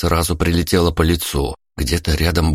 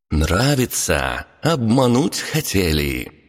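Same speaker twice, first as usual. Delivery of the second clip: taunting succubus; 3 semitones higher, slower than usual. Acted.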